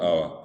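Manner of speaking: "aba" stressed at the beginning; stress on first syllable. Shown as a demonstration. Teacher contrasts initial accent for students, first A of "aba" stressed. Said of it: "El acento está al principio".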